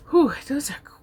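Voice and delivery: unvoiced whisper of amazement at hard questions; whispered aside. Real, not acted. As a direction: breathe it out, half to yourself.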